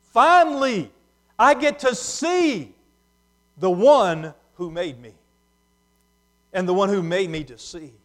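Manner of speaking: overwhelmed with joy at finally seeing; joyful awe. Acted. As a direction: cry out like a man seeing his maker for the first time. Healed man rejoices at seeing Jesus.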